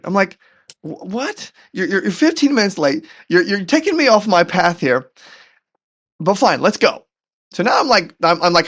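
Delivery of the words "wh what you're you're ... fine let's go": stammering, higher-pitched protest; retold exasperation, giving in at the end; frustrated. Husband protests to his late wife, frustrated. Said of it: "Now I'm even more frustrated".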